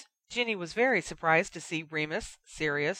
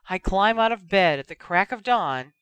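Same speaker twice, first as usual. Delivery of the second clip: dramatic; 7 dB louder than usual. A narrator's reading. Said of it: "sighed dramatically".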